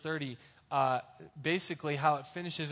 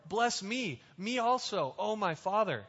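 high, pleading and begging; pleading cry; 5 semitones higher than usual. Acted. Esau begs his father Isaac for a blessing, high and pleading. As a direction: beg like a son denied.

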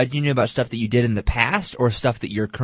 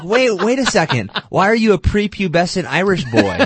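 much higher, louder, laughing disbelief; incredulous high voice; 10 semitones higher, 5 dB louder than usual. Pretend. Mocking his own accent attempt, high-pitched laughing disbelief. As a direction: squeak out the question in mock shock. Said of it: "it's like".

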